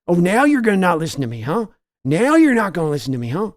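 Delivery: a hint of the owner's high voice; father scolding son over the loss, lightly voiced; Jerry Jones scolding. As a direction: needle the son about the loss. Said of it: "your Jerry Jones voice yelling at Steven".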